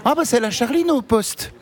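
put-on teasing Franche-Comté accent, stretched out; Besançon accent. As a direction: drag it out like a Besançon local. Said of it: "que t'es bisontine, tu dis".

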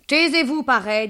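high silencing retort; scolding landlady. Acted. Madame Dehan silencing mademoiselle Baba, scolding. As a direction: shut her up in a high voice. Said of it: "dit madame Dehan".

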